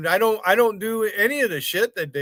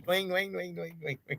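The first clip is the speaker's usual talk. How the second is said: soft twangy imitation; 12 dB quieter than usual. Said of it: "hear them fuckers twanging".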